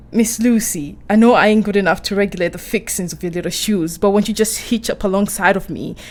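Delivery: lightly put-on Texan folksiness, a little quick; playful hint of a Texas accent; mock Texan talk. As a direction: imitate a jolly Texan suitor. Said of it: "He can't really talk like that".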